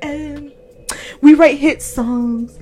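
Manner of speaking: slow, hesitant mock of a rival rapper; mocking a rapper. Mocking the rival rapper's weak comeback, slow and prissy. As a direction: drag it out like a nervous excuse. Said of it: "she was all like".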